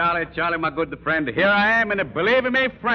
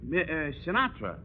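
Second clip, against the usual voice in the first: put-on faltering Italian-accented threat. Threat collapses on hearing the name.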